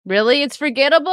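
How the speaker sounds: can't believe chat said that; shocked disbelief. Real, not acted. Reacting in shock to a chat comment, loud disbelief.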